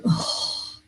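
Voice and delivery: whispered, deflated oh; energy sinking into a whispered oh; deflated sigh. Pretend. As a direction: let the air go out of you on oh. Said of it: "And my energy goes".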